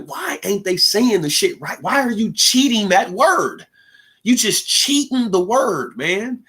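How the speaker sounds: slow, drawn-out griping; mock complaint. Kid griping slowly about mom's broken English. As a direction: drag each complaint out. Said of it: "I used to be like".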